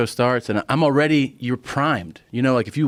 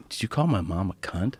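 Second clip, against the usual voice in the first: serious confrontation; 2 semitones lower, 6 dB quieter than usual. Retold or imitated. Serious son confronting comic.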